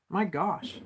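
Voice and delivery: breath let out after holding it; tight, held-breath voice. Real, not acted. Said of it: "I'm holding my breath even".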